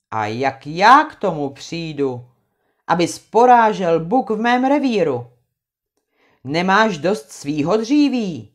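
stern retort. Acted. Krakonoš answers Trautenberg, stern. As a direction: throw the words back at him.

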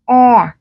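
E said with the mouth set for a; a long, tense, flattened E; e bẹt. Shown as a demonstration. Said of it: "làm vị trí âm a nhưng các bạn nói chữ e". (âm E bẹt, căng miệng)

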